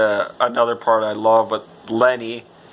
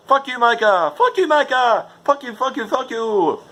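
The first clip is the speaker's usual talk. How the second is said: angry yelling; 11 semitones higher than usual. Real, not acted. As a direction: yell it at the villain. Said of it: "venting at a hated character".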